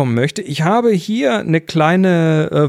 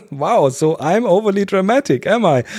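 higher, huffy offended voice; wild overacting; 6 semitones higher than usual. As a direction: play the air hammily indignant. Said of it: "dann meldet sich die Luft und sagt".

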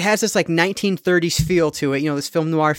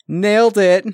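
proud, louder "nailed it"; triumphant; 5 semitones higher, 6 dB louder, slower than usual. Real, not acted. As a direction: crow a little victory. Proud of guessing the voice actor.

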